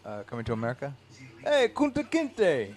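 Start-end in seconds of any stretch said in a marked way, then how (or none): 1.4-2.8 high, slow, stretched yell; movie line shout. Retold or imitated. Quoting Coming to America to his friend, slow high yell. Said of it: "What is that velvet line from?".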